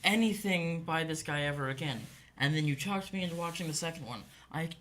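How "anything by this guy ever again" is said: retold vow. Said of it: "and I said".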